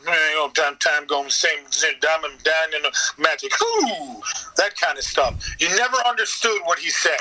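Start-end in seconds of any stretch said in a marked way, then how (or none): 0.1-4.2 Boomhauer mumble. Retold or imitated. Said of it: "You couldn't understand a word that he said".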